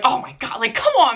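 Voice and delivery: a friend losing it, half whispered then pleading; panicked friend. Retold or imitated. Friend panicking as the paramedic mentions stitches, rising plea. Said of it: "she's like".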